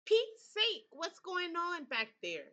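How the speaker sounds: startled shout from the front seat. A narrator's reading. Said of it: "shouts Uncle John".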